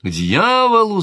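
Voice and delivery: high, loud repeated shout; king shouting. A narrator's reading. King shouting at his sister about the hunt. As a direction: hurl the curse again just as hard. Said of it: "закричал король".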